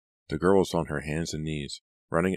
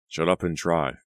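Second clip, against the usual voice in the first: snapped bitterly; 4 dB louder than usual. Acted. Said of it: "Press snapped bitterly".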